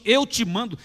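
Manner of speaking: high, firm order; firm command. Acted. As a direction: command it with full authority. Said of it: "Jesus deu uma ordem". (ordem firme e autoritária)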